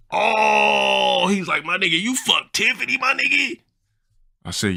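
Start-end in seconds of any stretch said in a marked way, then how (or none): 0.1-3.6 very high cry of shock in his voice; heartbroken friend's voice. Retold or imitated. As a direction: wail it in mock heartbreak. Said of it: "Yeah, that's how he talked".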